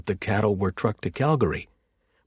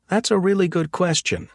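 eager; 10 semitones higher, 4 dB louder than usual. Acted. Axel answers eagerly.

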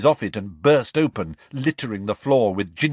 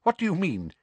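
high, tight indignant question; strangled disbelief; constricted voice; 10 semitones higher, faster than usual. Acted. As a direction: hold the fury in. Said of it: "she repeated in a constricted voice".

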